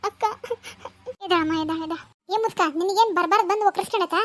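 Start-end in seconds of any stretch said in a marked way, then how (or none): 1.2-2.0 tearful pleading through sobs; crying. Acted. Neighbour crying over the fallen pregnant girl, tearful. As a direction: voice breaking with tears as she repeats it.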